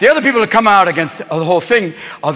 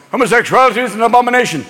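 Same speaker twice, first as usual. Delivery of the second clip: condemning pope; faster than usual. Acted. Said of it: "The Pope is always".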